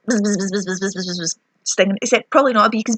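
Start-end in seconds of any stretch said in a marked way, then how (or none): 0.0-1.4 soft mock buzzing, trailing off; playful bee buzz, fading away; buzzing bee noise. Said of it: "He's like".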